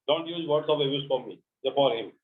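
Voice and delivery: very slow, word by word; slow dictation. Shown as a demonstration. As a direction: read it out slowly for copying. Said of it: "teacher dictates model sentence". (धीमी dictation आवाज़)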